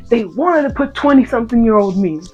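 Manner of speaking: outraged rant. Real, not acted.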